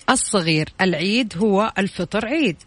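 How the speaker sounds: slow, word by word scrambled sentence; backwards speech. Shown as a demonstration. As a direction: read each jumbled word slowly and clearly. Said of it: "أنا هعيد لك الجملة مرة أخرى".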